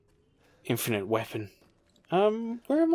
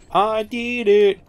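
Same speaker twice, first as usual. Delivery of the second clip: excited; 9 semitones higher, 5 dB louder, much slower than usual. Real, not acted. Triumphant after a tough moment.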